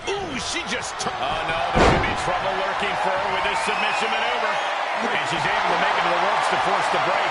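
fast, excited play-by-play; wrestling commentator. Acted. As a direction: call the hold rising with urgency. Live wrestling play-by-play call.

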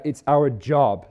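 "job" given extra weight, slowly; stress on JOB. Shown as a demonstration. Preacher moving to his next key word, stressing "job". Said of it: "emphasis on the word job".

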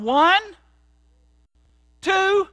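counting out loud and high, building. Retold or imitated. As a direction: drunk guys counting down to the toss, calling it out loud. Drunk roommates counting the throw.

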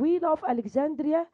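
We love Alexandria read very slowly, word by word; slow model reading. Shown as a demonstration. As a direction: spell it out slowly for the class. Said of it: "بيقول لي إيه بقى lesson one". (قراءة بطيئة واضحة)

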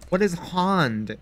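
slow, puzzled echo of "hand" as "hahnd"; mimicked pronunciation. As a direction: draw out "hand" with a broad "ah". Mocks the accented word hand.

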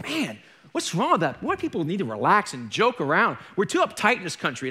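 retold irritated grumbling; mildly angry. Preacher retells stewing at home after rebuke, mildly angry. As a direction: vent with a touch of annoyance. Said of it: "and I was angry".

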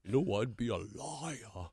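half-sung with a hint of Boston; Boston accent. Imitating a singer's Boston accent, lightly. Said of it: "sang in a Boston accent".

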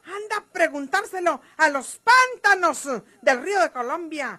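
rising fury ending in a shouted insult; angry accusation. Acted. María Eugenia accuses Gumaro of betrayal, furious. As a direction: spit out the betrayal, then yell coward.

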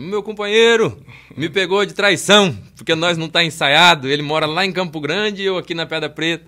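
loud, high-pitched mock-politician oratory; politician's speech. Retelling grandpa's complaint about not rehearsing, mimicking politician-style oratory. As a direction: declaim it like a politician at a rally. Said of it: "ele falava meio igual de político".

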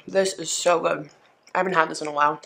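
chewing while talking; mouth full. Real, not acted. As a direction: talk through a bite of salad. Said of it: "talking with her mouth full".

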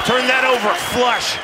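excited. Real, not acted. Commentator calls landed punch.

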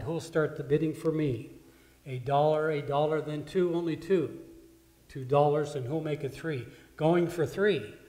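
loud, rhythmic bid calling; auctioneer. Acted. Auctioneer pushing the crowd for bids, loud calling. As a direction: rattle off the bids to the room.

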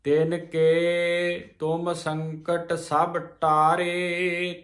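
very slow chant of the whole line; slow recitation. Shown as a demonstration. Teacher reciting before the breakdown. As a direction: draw the line out evenly. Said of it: "ਤੇ ਰੁਕ ਕੇ ਵਿਸਰਾਮ ਦੇ ਕੇ".

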